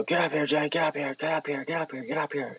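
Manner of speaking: high, urgent mock yell without real volume. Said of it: "he's yelling".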